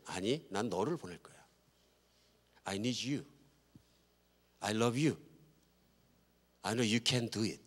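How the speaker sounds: soft, hushed voice of a loving God; quiet and tender, with long pauses; tender reassurance. Acted. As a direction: speak gently to encourage someone who doubts. God gently reassures Moses.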